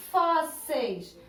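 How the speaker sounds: "Fósseis" split into fós and seis; syllable by syllable. Shown as a demonstration. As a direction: sound out "Fósseis" in two separate beats. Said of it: "vão separar em sílabas".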